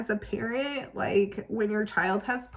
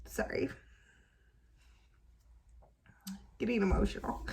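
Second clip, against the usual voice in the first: getting emotional; 6 dB quieter, faster than usual. Real, not acted.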